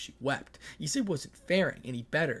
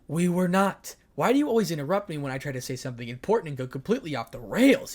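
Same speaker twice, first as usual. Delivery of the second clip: angry retort; 3 semitones higher, 7 dB louder than usual. Acted. Issei yells back at Ria.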